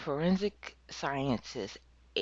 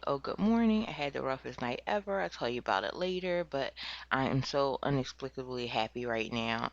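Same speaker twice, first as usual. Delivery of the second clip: mock giddy girl. Brooke texting her boyfriend, a mock giddy voice. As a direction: parody her over-happy text message. Quoting Brooke's cheerful text.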